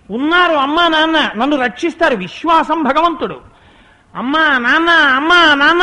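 put-on a boy sobbing out for his parents; crying child. Weeping boy at the tank calls to Parvati and Shiva, crying. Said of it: "అని ఏడిచాడంతే".

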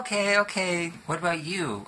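high-pitched placating parent; imitated parents. Parents answering the seven-year-old on a trip, high placating voice. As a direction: brush off the kid, then turn to the others. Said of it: "And they're like".

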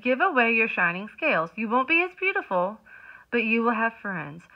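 loud, lightly voiced wise octopus. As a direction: advise him like a wise old octopus. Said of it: "The octopus said".

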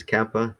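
"kappa" with the first syllable "kap" stressed. Shown as a demonstration. Teacher showing the class where the stress in "kappa" goes. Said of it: "this is where we wanna put the emphasis".

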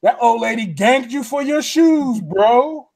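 milk it like a guy loving the drama; hammed-up guy in line. Guy behind him in line teases, hammed-up mock sympathy. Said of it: "He putting all the extra on it".

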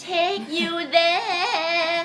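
high, drawn-out singsong title; hyped song intro. Real, not acted. DJ launching the next song for listeners, hyped singsong intro. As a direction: stretch the title out high, radio DJ style.

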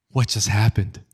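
breathy, acted bewilderment; stunned whisper. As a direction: play someone left stunned, voice mostly breath. Stunned boy left standing.

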